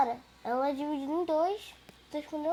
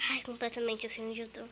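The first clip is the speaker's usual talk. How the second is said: whispering; 4 semitones lower, 10 dB quieter than usual. Real, not acted. Hiding in game, whispering.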